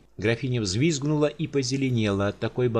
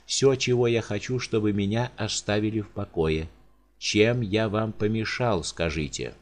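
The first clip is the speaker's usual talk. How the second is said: sorrowful giant. Acted. Giant pleads with the countess over dead servants.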